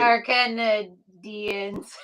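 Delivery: "Canadians" drawn out slowly, syllable by syllable; slow, mock mispronounced "Canadians"; press secretary's Canadians. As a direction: stretch out every syllable of "Canadians". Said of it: "according to our, uh, press secretary".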